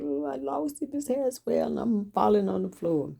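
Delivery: put-on high, pleading little-girl whine; pleading child. Girl begging the teacher, high and pleading.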